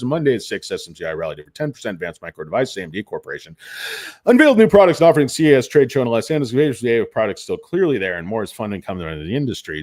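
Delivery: quick, flat article read-out; news read. Acted. Host reading a news article to viewers, fast. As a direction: rattle through the news copy fast.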